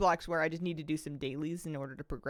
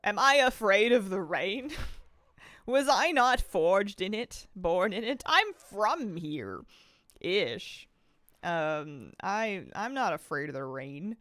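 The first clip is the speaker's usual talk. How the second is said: defiant; 5 dB louder, slower than usual. Retold or imitated. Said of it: "I was like".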